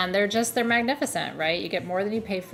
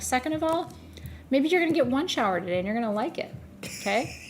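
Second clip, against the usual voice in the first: lightly raised, bossy telling-off; a touch of a stern owner laying down the law; mock scolding the cat; 4 semitones higher, 4 dB quieter than usual. Owner telling off her cat about showers, mock-bossy. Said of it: "I'm like".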